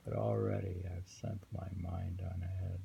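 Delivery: poem reading. Acted. Reads the poem a third time.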